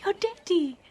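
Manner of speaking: high, loud shocked question; astonished. Acted. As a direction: jump up in disbelief. Hears the dead father returned.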